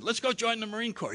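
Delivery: high, eager beery pitch; excited suggestion. Retold or imitated. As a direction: pitch the big idea to the drinking buddies. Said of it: "somebody said".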